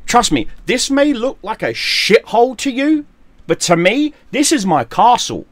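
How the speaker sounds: real anger boiling over into shouting; furious rant. Real, not acted. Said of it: "Sorry for the rant".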